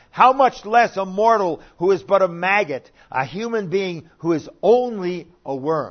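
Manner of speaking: yelling loudly, pitched high.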